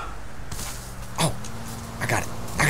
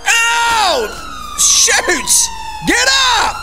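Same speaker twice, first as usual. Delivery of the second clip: pained yelps; much slower than usual. Real, not acted. Hit and knocked down in game.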